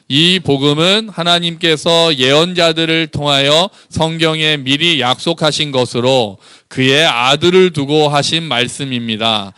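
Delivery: slow, measured Bible reading; scripture reading. Acted. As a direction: lead the congregation through the verse slowly. Leads congregation reading scripture. (천천히 또박또박 성경 봉독)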